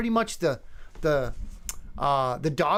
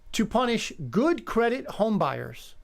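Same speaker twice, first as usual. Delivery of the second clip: deliberate, measured headline reading, pitched higher; slow re-reading; 4 semitones higher than usual. Shown as a demonstration. Host rereads a misleading headline one more time, slowly. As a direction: read it out slowly, word by word. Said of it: "read it one more time slowly".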